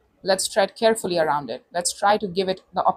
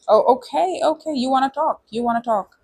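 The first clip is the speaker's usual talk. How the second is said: surprised; 6 semitones higher than usual. Real, not acted. Reacting to a card.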